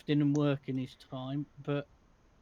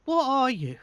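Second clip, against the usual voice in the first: high, loud demand falling sharply at the end; blunt dwarf character; 10 semitones higher, 7 dB louder than usual. Acted. Dwarf sizing up Bastion in the tavern, loud blunt demand. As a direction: loudly demand an answer from a stranger. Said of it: "looks at Bastion and goes".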